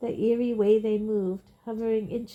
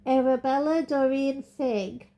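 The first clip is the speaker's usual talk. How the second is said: put-on high, quavering old woman; quavery voice; 5 semitones higher, 5 dB louder than usual. A narrator's reading. Nervous old witness giving her name, quavering. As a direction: let the voice wobble a little. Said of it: "said Missus Figg in her quavery voice".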